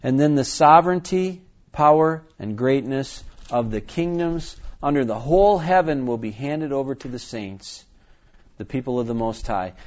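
measured proclamation, punching the key words; scripture reading. Acted. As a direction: read it out with weight, phrase by phrase.

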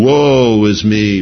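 slow, solemn woe; slow prophetic lament. Retold or imitated. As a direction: draw it out like a grave confession. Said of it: "Isaiah saying".

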